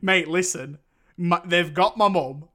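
high, loud mock indignation; loud comic exasperation at a film character; exasperated outburst. Acting out exasperated reaction to scene.

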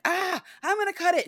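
put-on high, breezy girl voice; childlike mock voice; mock Claudia. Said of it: "and she's like".

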